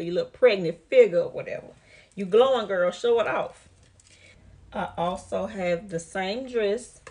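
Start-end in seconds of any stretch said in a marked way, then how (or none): 0.0-3.7 louder, fast cheering on; hyped encouragement. Real, not acted. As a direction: cheer the viewer to show off her bump. Hyping up pregnant viewers.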